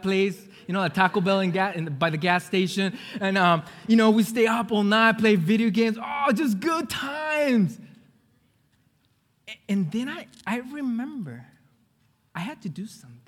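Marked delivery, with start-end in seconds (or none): 6.0-7.8 high, drawn-out relish; exuberant. Retold or imitated. Man remembering nights with friends, exuberant. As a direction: savour it slowly in a raised voice.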